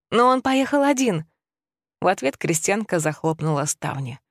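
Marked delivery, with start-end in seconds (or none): 0.1-1.2 urgent, raised pleading; desperate plea. Acted. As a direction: beg for help in a panic. Widow's last plea. (отчаянная мольба)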